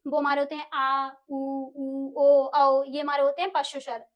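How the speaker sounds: उ, ओ, औ sounded out from the back of the mouth; vowel demo. Shown as a demonstration. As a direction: show each back vowel clearly. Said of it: "और जो पश्च स्वर होते हैं". (पश्च स्वरों का उच्चारण)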